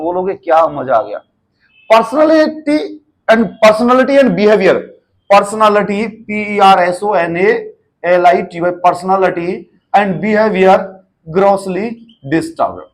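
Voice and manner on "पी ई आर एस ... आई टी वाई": slow letter-by-letter dictation; spelling out. Shown as a demonstration. Teacher spelling personality for nursing students, slow dictation. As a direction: spell it out slowly for a class.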